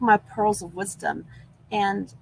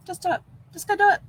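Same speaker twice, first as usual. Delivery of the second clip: higher, louder rallying cry; excited pep talk; 11 semitones higher, 3 dB louder, faster than usual. Real, not acted. Vlogger urging her viewers to act, excited. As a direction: fire them up to act now. Upbeat sign-off exhortation.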